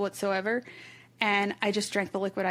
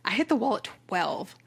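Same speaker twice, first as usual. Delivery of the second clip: breathy whisper, almost no voice. Retold or imitated. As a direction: drop to a secret whisper as if confessing. Telling of race collapse.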